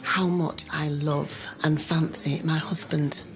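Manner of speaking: slow and tender. Real, not acted. Wife telling husband she loves him, slow and tender.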